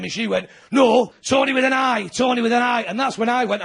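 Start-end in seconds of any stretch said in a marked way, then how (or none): 0.7-2.8 mock-shouted insistence on the spelling; woman in the audience shouting the spelling of her name; indignant correction.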